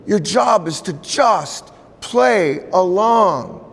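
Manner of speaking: high, slow gentle elder; wise elder's voice. Retold or imitated.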